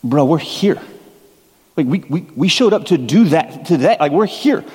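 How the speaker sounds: mildly indignant, voice climbing as it goes; indignant congregant. Acted. Congregant objecting to being told to worship, indignant. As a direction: protest like an offended churchgoer. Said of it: "you might be thinking".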